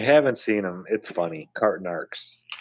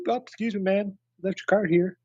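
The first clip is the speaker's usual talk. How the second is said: put-on a light Cajun accent, higher and sing-song; mock Cajun accent; 10 semitones higher than usual. Host imitates the Cajun cart guy scolding a shopper, light Cajun accent. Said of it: "trying to do a Cajun accent".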